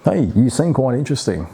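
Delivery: balanced greeting. Shown as a demonstration. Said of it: "sort of find the mix".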